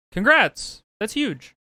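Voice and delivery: high and loud, genuinely thrilled; happy burst of praise; excited congrats. Real, not acted. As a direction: cheer for the new job.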